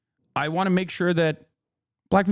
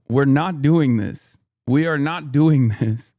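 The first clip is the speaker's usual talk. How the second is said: louder, slow, laughing no; laughing refusal; 5 dB louder, slower than usual. Real, not acted. Streamer refusing chat's push to respond to Demi, slow and laughing. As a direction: put your foot down through laughter.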